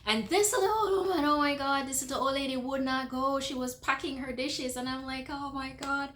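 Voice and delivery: high-pitched, exasperated outburst. Retold or imitated. Telling how the old lady would not go, exasperated.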